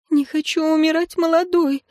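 high-pitched tearful plea. A narrator's reading. Young priestess afraid of dying, crying. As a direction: wail it lightly, as a frightened priestess. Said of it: "заплакала ещё одна жрица".

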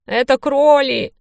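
high, loud, slow horrified cry; panicked cry. A narrator's reading. The big thug cries out at the rabbits in panic. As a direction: recoil at the sight of them.

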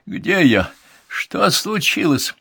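high, drawn-out querulous questions; grumpy creak. A narrator's reading. Medium coming to as an old woman, grumpy creak. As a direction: ask crossly, like an old woman waking up. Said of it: "проскрипела она ворчливо".

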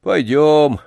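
drawn-out resigned echo; understated gloom, giving in meekly; dejected, resigned. A narrator's reading. Old man submitting to the boy's order, dejected and resigned. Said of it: "уныло и покорно повторил старик".

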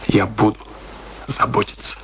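slow menacing whisper. Acted. Kurt promises to care for the children, slow whisper. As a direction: let the promise hang as a threat. Veiled threat in drama.

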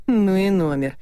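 an impressed half-whistle; whistling in surprise. A narrator's reading. Doctor reacting to the lawyer's revelation, impressed whistle. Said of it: "присвистнул я".

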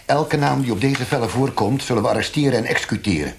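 rising, loud, fast menace; loud threat. Acted. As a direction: bark out the death sentence. Interrogator threatens executions.

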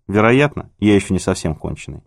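usual speaking voice

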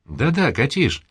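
suddenly eager to agree; perking up. A narrator's reading. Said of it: "оживилась полковница". (оживлённо)

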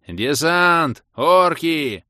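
громко, высоко, отрывистыми словами; подними тревогу криком; крик тревоги. A narrator's reading. (тревожный окрик)

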